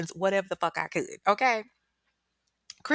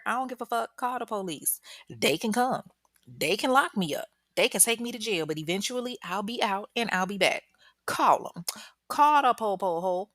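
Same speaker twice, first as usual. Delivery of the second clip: higher-pitched, dismissive taunting; mock defiance; 4 semitones higher than usual. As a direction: act out a man daring her to call. Acting out Brian's defiant reply.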